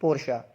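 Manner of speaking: पोर्शा in two syllables, "por-sha"; model pronunciation. Shown as a demonstration. Teacher models the brand name, model pronunciation. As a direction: say पोर्शा ending in "sha", falling. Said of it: "आप सब साथ साथ बोल रहे हैं".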